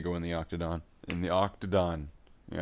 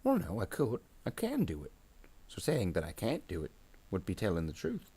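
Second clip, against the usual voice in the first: arguing grot minion; 2 semitones higher than usual. Acted. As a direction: argue squeakily with the boss. Grot argues with its boss.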